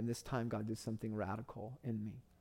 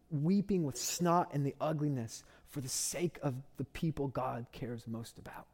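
impassioned build; 3 semitones higher than usual. Real, not acted. Passionate sermon climax.

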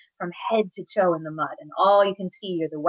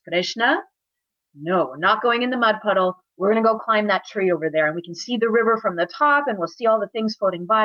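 higher, insistent big-brother voice; firm coaxing; 3 semitones higher, 3 dB louder than usual. Acted. Big brother talking little brother out of mud, firmly coaxing. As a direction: steer him firmly away from temptation.

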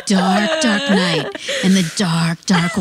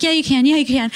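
higher-pitched imitated cheering-on; retold encouragement; 6 semitones higher, faster than usual. Nurse coaxing a patient toward the bathroom, imitated higher-pitched encouragement. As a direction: urge someone on, lightly acted. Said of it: "Encouraging him".

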